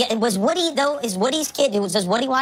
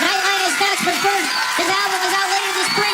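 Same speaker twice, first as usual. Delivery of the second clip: host sign-off; 9 semitones higher than usual. Acted. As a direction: wrap up the show and hype the next act. Host's closing show announcement.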